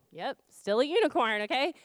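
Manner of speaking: mildly impatient confirmation; retold parental exasperation; exasperated mom. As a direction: answer a toddler's repeated question with thinning patience. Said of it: "I'm irritated. I'm exasperated".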